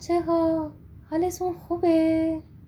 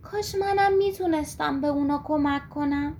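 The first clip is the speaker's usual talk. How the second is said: wistful sigh; 3 semitones higher than usual. Acted. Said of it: "یه آهی کشید و گفت".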